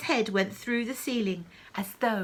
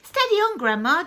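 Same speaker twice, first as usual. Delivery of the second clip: high, loud urgent call; boy trying to calm her; 8 semitones higher, 9 dB louder than usual. Acted. George telling Grandma to steady on, calling loudly. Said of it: "George said".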